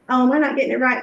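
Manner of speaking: light, open curious question; curious check-in. Shown as a demonstration. Counselor asking a teen if she understood, gently curious. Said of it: "do you hear the difference in those two things".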